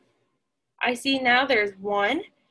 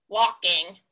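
grumpy bird; 6 semitones lower than usual. Acted.

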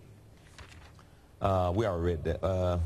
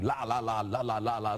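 imitated tongues syllables. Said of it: "And I'm like".

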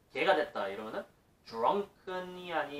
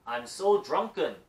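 wrong version; 4 dB louder, much slower than usual. Shown as a demonstration. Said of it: "이라고 말을 못한다는 거죠".

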